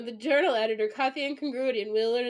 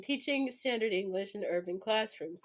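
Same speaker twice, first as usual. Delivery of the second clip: normal talking voice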